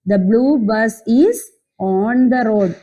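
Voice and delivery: very slow, word by word; slow reading aloud. Shown as a demonstration. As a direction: spell the sentence out slowly for kids. (പതുക്കെ വാക്കുവാക്കായി വായന)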